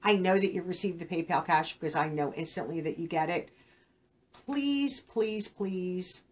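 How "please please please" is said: drawn-out, imploring please; pleading. Real, not acted. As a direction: beg them, stretching each word. Pleading with viewers to reply.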